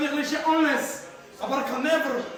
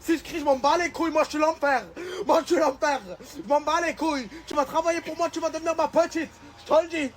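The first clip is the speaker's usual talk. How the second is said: mock aggressive bravado; 4 semitones higher than usual. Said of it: "Tu as pas besoin de crier comme ça".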